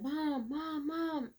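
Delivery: lightly voiced, pleading for his mother; imitating cries for mom. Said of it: "he starts screaming for his mom".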